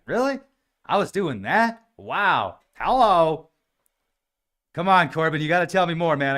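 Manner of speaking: high, loud, delighted disbelief; excited disbelief. Pretend. Host to Corbin, begging to hear the dream, high and excited. Imagined reaction to dream story.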